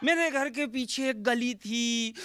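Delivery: slow, high, half-sung recital that loops on; stuck poet. Retold or imitated. Second poet stuck on his first line, slow half-sung recital. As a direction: drag out each lane like an endless poem. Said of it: "बोले".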